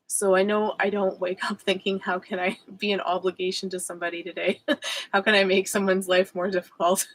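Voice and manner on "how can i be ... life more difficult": mock thought, broken by giggles; amused self-mocking inner voice; laughing through it. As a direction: laugh at the absurd idea while saying it. Mocking her own thoughts.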